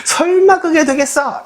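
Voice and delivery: mock the idea as impossible; high, drawn-out "no way" scoff; scoffing disbelief. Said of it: "이런 생각을 하고".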